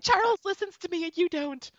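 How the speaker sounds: high whiny pretend complaint; mock fight with husband. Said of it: "Cut to you, like, fighting with your husband".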